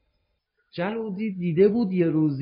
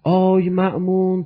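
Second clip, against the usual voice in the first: mild mock call; 4 dB louder than usual. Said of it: "برگشت جلودی داد زد".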